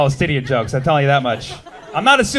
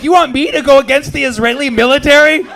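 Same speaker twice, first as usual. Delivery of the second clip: mock incredulous; 8 semitones higher, 4 dB louder than usual. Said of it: "I'm like".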